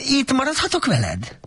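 high, hopeful donkey plea; blurting. A narrator's reading. Donkey blurts out asking to stay with Shrek. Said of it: "kiböki".

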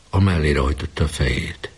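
plain reading voice

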